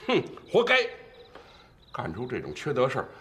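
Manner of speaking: high, emphatic scornful outburst; venting spite. Acted. Scolding the beaten man for his misdeed, spiteful venting. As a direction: vent your anger with bitter satisfaction. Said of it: "别在这咬牙跺脚解气了".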